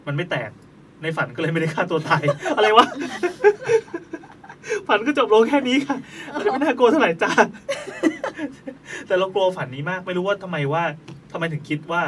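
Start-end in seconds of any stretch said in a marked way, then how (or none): 2.4-9.1 high bursts of real laughter through the words; cracking up at the silly ending, louder; laughing. Real, not acted. Laughs at own anticlimactic story. (หัวเราะลั่นจริงๆ ขณะพูด)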